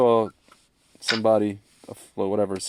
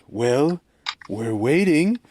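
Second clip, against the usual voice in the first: lightly voiced stern judge, higher; a hint of the impatient judge from Caddyshack; mock stern judge, pitched up; Judge Smales; 6 semitones higher, much slower than usual. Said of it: "it's like Judge Smales from, uh, a Caddyshack".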